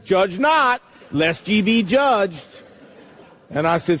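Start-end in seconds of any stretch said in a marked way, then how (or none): 0.1-2.6 "Judge not" pitched up with weight on "not"; misplaced emphasis. Retold or imitated. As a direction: lean on "not", then draw out "judged". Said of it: "got the emphasis on the wrong syllable".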